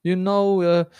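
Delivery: broken-English Maltese accent; snappy Maltese delivery; a little Italian-tinged Maltese. Shown as a demonstration. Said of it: "Do a Maltese accent".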